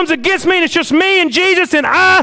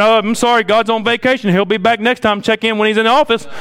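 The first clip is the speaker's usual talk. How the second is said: voicemail message; 5 semitones lower than usual. Retold or imitated. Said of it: "this crony voicemail saying".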